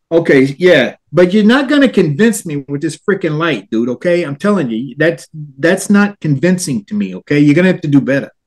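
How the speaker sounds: lightly put-on New Jersey skeptic; New Jersey accent. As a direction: imitate an unconvinced New Jersey guy. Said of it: "it's my best New Jersey accent".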